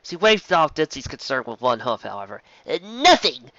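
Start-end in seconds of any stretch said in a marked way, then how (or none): 2.7-3.5 higher, louder, hurried brush-off; flustered denial. A narrator's reading. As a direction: wave it off too quickly. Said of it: "The unicorn swore".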